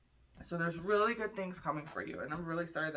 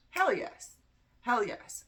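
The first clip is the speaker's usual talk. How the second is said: much higher, louder gut cheer of relief; belly saying hell yes; 8 semitones higher, 5 dB louder, slower than usual. Retold or imitated. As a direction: let the gut shout its yes. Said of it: "made my belly go".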